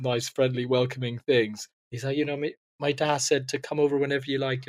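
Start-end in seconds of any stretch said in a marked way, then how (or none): 2.2-4.7 lightly put-on Northern Irish boy; understated, softer Northern Irish attempt; Northern Irish accent. Young boy welcoming his new neighbour, Northern Irish accent. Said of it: "this is my Northern Irish accent".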